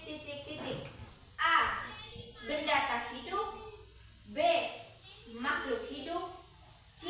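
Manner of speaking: dictating. Acted. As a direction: read it out for the class to write. Reads quiz question aloud.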